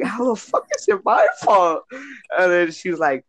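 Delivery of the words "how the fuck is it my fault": retold angry yell. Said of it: "me and her are screaming at each other".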